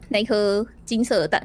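ordinary delivery, nothing marked

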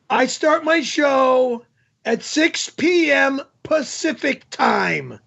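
slow, deliberate, patronizing; slow, spelled-out explanation. Real, not acted. Host slowly explains start time to confused viewers.

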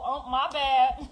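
slow, offhand "my bad" with a laugh; mock casual apology. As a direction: shrug it off lightly, laughing. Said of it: "If they say".

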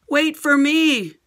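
high, slow call after the others; little girl calling out as they run off; mock shout. A narrator's reading. Liz calling after friends, high slow call. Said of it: "shouted Liz".

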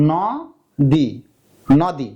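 "নদী" with an open অ in ন; spelling pronunciation. Shown as a demonstration. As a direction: say "নদী" as written, with an open no rounding "naw-di". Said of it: "আমি যদি ন উচ্চারণ করি". (বানান ধরে খোলা অ দিয়ে উচ্চারণ)

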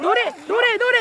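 calling out. Real, not acted. Calling out to the swimmers.

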